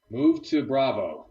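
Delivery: slow, firm commander order. Acted. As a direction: give the order like a field commander. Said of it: "That's a good commander voice there".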